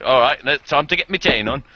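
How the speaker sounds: mock chav accent that comes out posh cockney. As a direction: put on a chav voice, half-hearted. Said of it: "That sounded like a fucking posh cockney".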